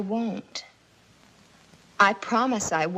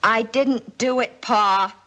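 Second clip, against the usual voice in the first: insistent denial; 4 dB louder, slower than usual. Acted. Daughter insists louder.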